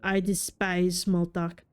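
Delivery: put-on slow, disdainful French-accented cat; French-accented contempt, unhurried. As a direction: draw it out in an amateur French accent. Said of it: "how to do a French accent".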